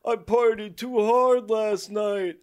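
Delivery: slow, groaning hungover Santa; sick Santa voice. Acted. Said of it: "You sound a little sick".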